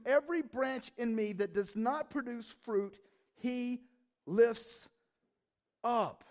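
lifts up slow and emphatic; stress on lifts up. Shown as a demonstration. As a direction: lean into lifts up. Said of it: "let me read it again".

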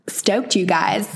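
lightly put-on American accent, drawn out; slow, hammy American delivery. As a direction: try out a playful American accent. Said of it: "I'm not gonna do that accent again".

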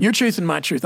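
'Your truth and my truth' in a lightly put-on Texas accent; a hint of a down-home Texas accent. Shown as a demonstration. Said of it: "I'm gonna just go Texas on it".

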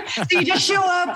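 laughing. Real, not acted. Excited pitch about summer camp.

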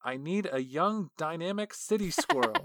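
lightly hammed-up official; first take, grander. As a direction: announce it like a big idea. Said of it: "the description that they gave to the artist".

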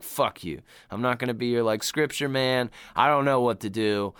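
usual speaking voice

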